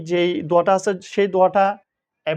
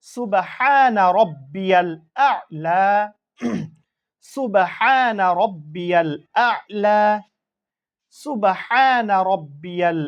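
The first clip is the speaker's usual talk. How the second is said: slow, drawn-out Arabic recitation; prayer recitation; much slower than usual. Shown as a demonstration. Teacher recites the prayer for students, slow and drawn out. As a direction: chant each word slowly and clearly for learners. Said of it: "বানানটা একটু পড়ে নিই".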